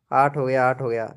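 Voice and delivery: whispered, as if to himself. Real, not acted. Streamer whispers the like count to himself. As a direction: breathe the count under your breath.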